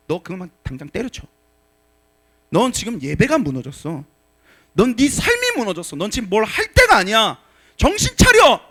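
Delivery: a father shaking his son awake; stern shout. Shown as a demonstration. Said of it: "라고 말해야 되는 거야". (점점 높아지며 크게 호통치는 목소리)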